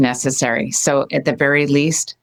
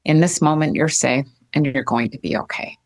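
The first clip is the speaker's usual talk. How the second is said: gentle reassurance. Shown as a demonstration. To a grieving friend, gently reassuring that she is safe. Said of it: "the language that I shift is".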